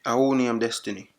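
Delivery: thick Jamaican patois; Jamaican accent. Acted. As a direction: speak in heavy Jamaican patois. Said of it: "used my Jamaican accent".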